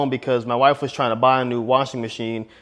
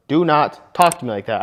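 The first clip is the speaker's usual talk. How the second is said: firm command. Shown as a demonstration. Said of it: "I just firmly told her".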